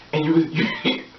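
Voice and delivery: ordinary delivery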